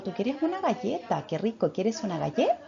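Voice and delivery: sing-song mother voice offering a cookie; talking to a toddler. Shown as a demonstration. Mother asks her little son if he wants a cookie, sing-song. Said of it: "Entonces yo le digo".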